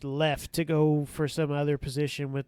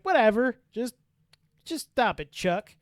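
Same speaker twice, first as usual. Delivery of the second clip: higher, louder exasperated brush-off; dismissive; 7 semitones higher, 6 dB louder than usual. Retold or imitated. Officer brushes off short man's name complaint, dismissive.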